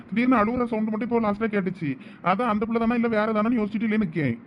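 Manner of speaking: ordinary talk, nothing marked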